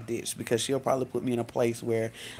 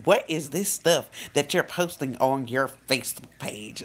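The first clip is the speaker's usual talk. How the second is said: attitude. Retold or imitated. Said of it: "this is the attitude I'm getting".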